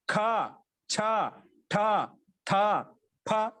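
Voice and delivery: ఖ, ఛ, ఠ, థ, ఫ each with a strong puff of breath; aspirated consonants. Shown as a demonstration. Teacher showing the class the aspirates ఖ, ఛ, ఠ, థ, ఫ, each breath-heavy. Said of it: "కొంచెం ఎక్కువ శక్తితో చెప్తాం".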